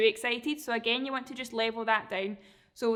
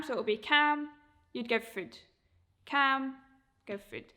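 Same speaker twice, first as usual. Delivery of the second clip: calm marker word; 2 semitones higher than usual. Shown as a demonstration. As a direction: say cam calmly to the dog. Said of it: "try and be calm when you're saying it".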